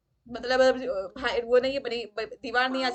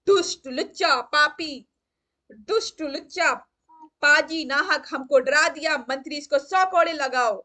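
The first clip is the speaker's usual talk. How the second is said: angry rant; 2 semitones higher, 6 dB louder than usual. Acted. King rants and orders flogging.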